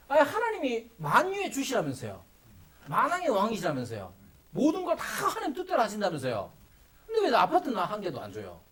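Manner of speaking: mock talking back to God; acted challenge, pitch jumping up on the accusations; defiant protest. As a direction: argue back like an indignant servant. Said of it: "이렇게 대들지 말라".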